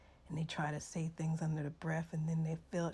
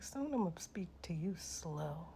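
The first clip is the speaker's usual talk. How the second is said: hushed, softer sarcastic aside; whispered retort; 3 semitones lower, 6 dB quieter than usual. Retold or imitated. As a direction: mutter it under your breath, condescending. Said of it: "I was looking at her like".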